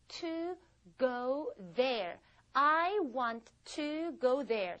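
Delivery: slow, every word apart; slow careful. Shown as a demonstration. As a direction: spell it out slowly for learners. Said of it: "빨리 하면 want to 이렇게 안 되죠". (천천히 또박또박)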